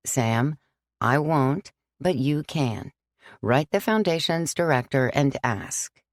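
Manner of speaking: put-on gently firm old priest; lightly voiced priest. Father John refusing Sam, calm and firm.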